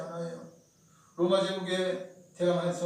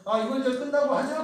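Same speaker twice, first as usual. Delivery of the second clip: voiced higher and louder, mock conspiratorial; scheming priests; 6 semitones higher, 7 dB louder than usual. Preacher voicing the chief priests' plot, raised and hushed-urgent. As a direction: play the chief priests plotting aloud.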